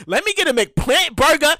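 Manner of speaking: casual order tryout. Shown as a demonstration. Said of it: "How does that shit sound?".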